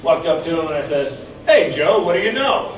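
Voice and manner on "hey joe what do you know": cheery greeting. Retold or imitated. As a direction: call out the greeting like an old pal happy to see him. Cheery greeting at class reunion.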